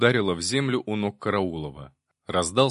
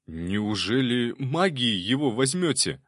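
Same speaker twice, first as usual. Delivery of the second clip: slow, hopeful plea; a slow, hopeful question from a policeman to a mage; 2 semitones higher, slower than usual. A narrator's reading. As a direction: ask with a hint of hope. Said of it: "с надеждой спросил пристав".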